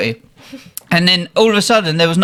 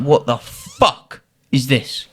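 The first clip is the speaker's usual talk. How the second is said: laughing disbelief; 13 semitones higher, slower than usual. Retold or imitated. Reacting to awful mermaid film.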